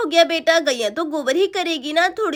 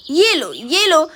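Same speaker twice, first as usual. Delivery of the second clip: slow, heavy punches on each phrase; angry scolding; 3 dB louder, slower than usual. Acted. Woman beats her cow as punishment, angry and drawn out. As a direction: land each phrase like a blow.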